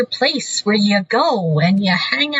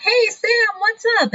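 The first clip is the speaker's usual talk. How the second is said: guy entering bar; 10 semitones higher than usual. Retold or imitated. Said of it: "He's all like".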